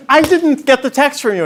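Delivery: loud, high, mock yell of a defensive daughter; retold yelling back. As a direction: throw it back at her like an indignant teen. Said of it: "and she starts yelling back".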